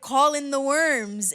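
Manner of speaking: ordinary delivery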